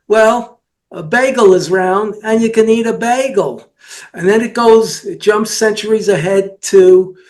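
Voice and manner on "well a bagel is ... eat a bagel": lightly imitated Jewish accent, a little higher. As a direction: quote the guy in a mild Jewish accent. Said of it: "the guy with the Jewish accent said".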